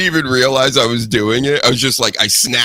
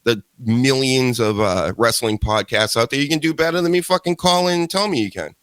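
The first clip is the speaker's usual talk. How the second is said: sarcastic dare. Acted. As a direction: needle them mockingly. Mocking dare to callers.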